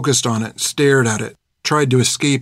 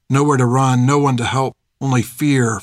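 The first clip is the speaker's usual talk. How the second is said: usual speaking voice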